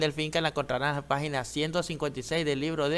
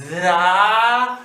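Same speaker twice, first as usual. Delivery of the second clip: "Dragón" drawn out slowly and louder; 2 semitones higher, 8 dB louder than usual. Shown as a demonstration. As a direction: sound out "Dragón" slowly for the class. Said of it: "Lo decimos despacito". ("Dragón" despacito y marcado)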